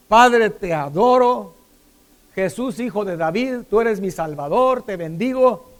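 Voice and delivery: imitated worship. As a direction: open slow and loud, as if praising God. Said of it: "empieza a adorar". (imitando una adoración fervorosa)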